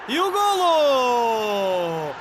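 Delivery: goal celebration shout. Real, not acted. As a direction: roar the goal with delight. Goal scored, commentator erupts.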